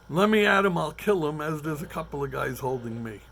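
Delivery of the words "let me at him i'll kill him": loud mock threat, held back by friends; retold screaming. Comic telling a bar fight, shouting to be let at him. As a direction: yell it like you want to fight. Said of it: "I'm screaming".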